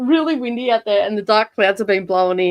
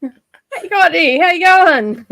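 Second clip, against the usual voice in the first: playful high greeting; 8 semitones higher, 7 dB louder, slower than usual. Shown as a demonstration. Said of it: "just sort of playing around trying to find".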